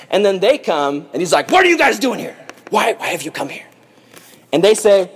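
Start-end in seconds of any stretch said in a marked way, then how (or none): 1.5-3.7 harsh. Acted. Joseph turns on his brothers in line, mock harsh. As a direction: challenge them sharply, then ease off. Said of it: "he spoke harshly to them".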